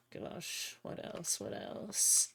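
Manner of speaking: hushed mutter, lost in thought; whispered muttering. Real, not acted. Streamer picking dinner whispers to herself. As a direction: whisper it to yourself, thinking. Muttering to self while choosing food.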